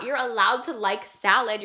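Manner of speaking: usual speaking voice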